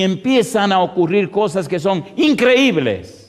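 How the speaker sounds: building preacher's proclamation; emphatic preaching. Acted. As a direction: drive it toward a punched last word. Preaching to congregation.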